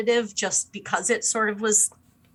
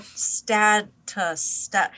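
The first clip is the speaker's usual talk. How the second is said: word losing meaning; much slower than usual. Retold or imitated. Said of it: "doesn't even sound like a word anymore".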